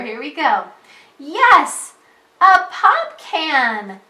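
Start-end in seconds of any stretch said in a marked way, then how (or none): 1.2-4.0 loud, higher excited exclamation; excited reading. Shown as a demonstration. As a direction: yell it out like an exclamation point. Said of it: "Are we gonna read it excited?".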